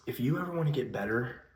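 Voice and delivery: stuffy voice from allergies. Real, not acted. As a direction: talk through an allergy flare-up. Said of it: "sorry, my allergies are going crazy right now".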